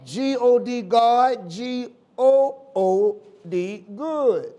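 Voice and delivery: letters spaced, then "good" falling; spelled out. Shown as a demonstration. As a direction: spell it out slowly for the church. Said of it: "If you want to spell good".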